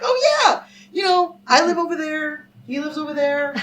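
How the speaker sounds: high, loud, casual-sounding cover story; fake breezy lie. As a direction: brush the cop off sweetly. Lying to the cop.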